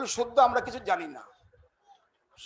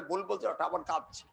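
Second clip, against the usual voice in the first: mocking; 5 semitones lower, 10 dB quieter than usual. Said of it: "আর সবাই ঠাট্টা করছে".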